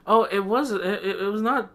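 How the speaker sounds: high-pitched mock protest; imitated rambling lady. Strange lady rambling at store staff, imitated. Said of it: "She was just, like, s-, saying stuff".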